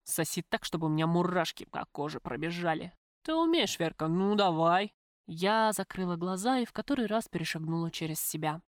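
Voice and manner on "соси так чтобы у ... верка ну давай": tiefer, fordernder Männerton; schwer atmender Mann. Acted. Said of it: "Тяжело задышал он".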